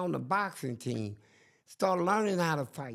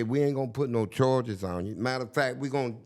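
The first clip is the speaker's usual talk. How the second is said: lower, matter-of-fact guard; lightly voiced guard; 7 semitones lower than usual. Guard telling the inmate there are no charges, lower.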